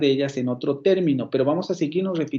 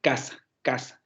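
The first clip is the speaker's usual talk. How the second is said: CAsa, first syllable pressed, said softly twice; stress on casa; 4 dB quieter than usual. Shown as a demonstration. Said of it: "casa es una palabra porque tiene un acento ahí". (acento marcado en la primera sílaba de casa)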